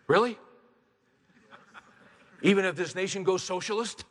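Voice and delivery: high, loud pulpit preaching; fiery preaching. Acted. Preacher rallies the congregation about God's power, preaching hard. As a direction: build it up to a revival call. Preacher exhorts crowd, full force.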